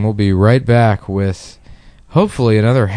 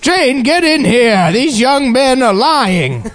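high, slow, outraged; shocked, calling out slowly; scandalized old-timey voice; 11 semitones higher, slower than usual. Pretend. Mock outraged boss calls Jane.

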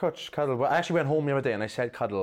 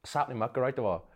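fast Welsh greeting. Shown as a demonstration. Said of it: "So we say very fast".

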